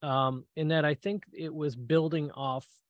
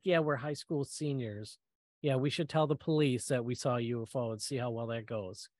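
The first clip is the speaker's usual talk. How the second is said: sarcastic. Retold or imitated. Teen mocks friend's idea to call police, dry sarcasm. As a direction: shoot the idea down with deadpan sarcasm.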